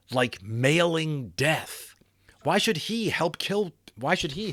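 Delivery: slow whisper; whispered dread. A narrator's reading. Narrator whispers Omri's fear of sending men to die. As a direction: breathe it out slowly in horror.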